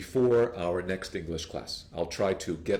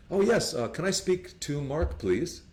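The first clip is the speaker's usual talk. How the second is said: eager caller; 6 semitones higher than usual. Acted. Acted caller.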